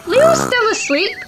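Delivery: Ma Lion, voiced high and soothing; high motherly lioness reassuring. A narrator's reading. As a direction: lift into a gentle mother's voice.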